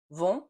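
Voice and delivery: vont said slowly, nasal o, rising; French nasal vont. Shown as a demonstration. Teacher models vont for English learners, slow nasal vowel. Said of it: "hear the difference between vent".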